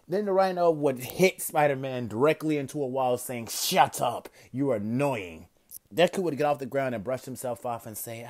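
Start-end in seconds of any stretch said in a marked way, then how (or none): 3.5-5.5 louder, curt villain retort; angry villain. Acted. Rhino fed up with Deku's jokes, louder angry retort. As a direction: brush him off with a gruff, louder snap.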